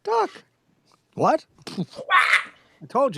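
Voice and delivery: high cartoon mouse telling a joke; squeaky Mickey punchline. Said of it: "that's an old joke".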